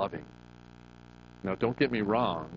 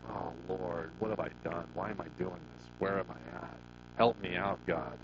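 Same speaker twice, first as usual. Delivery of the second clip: mourning prayer; 3 semitones lower, 7 dB quieter than usual. Retold or imitated. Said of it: "I mourn when I find myself just stinking".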